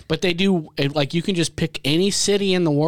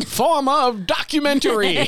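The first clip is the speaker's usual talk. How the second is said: superhero catchphrase; 10 semitones higher than usual. Pretend. Wonder Twin activation catchphrase.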